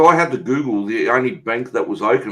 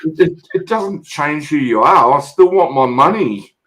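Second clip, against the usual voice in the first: retold rant; 4 semitones higher than usual. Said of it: "And I said".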